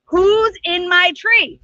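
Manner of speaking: a slow, drawn-out call up into the tree; lion asking who is up there, slow. Acted. Lion calls up the tree, slow and drawn out. Lion asks again, louder next.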